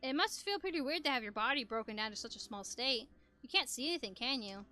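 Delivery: calm, kind robot voice; lightly voiced gentle robot. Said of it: "I was trying to go for a robot voice".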